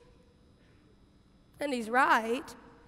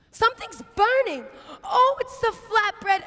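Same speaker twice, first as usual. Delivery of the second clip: alarmed; 4 semitones higher, 4 dB louder than usual. Acted. Martha notices burning bread.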